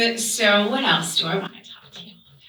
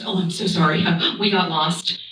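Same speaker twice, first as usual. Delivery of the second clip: apologetic mom; 5 semitones lower than usual. Acted. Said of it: "And my mom says".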